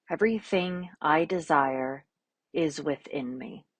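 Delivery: calm, unhurried instructions with long silences; guided meditation. Real, not acted. Yoga teacher offering an affirmation and easing class into poses, calm guided meditation.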